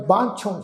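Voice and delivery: ਬਾਂਛੋਂ with a nasal final o; nasalised ending. Shown as a demonstration. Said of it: "ਔਂਕੜ ਨਾਲ ਬਿੰਦੀ ਲਗਾ ਕੇ".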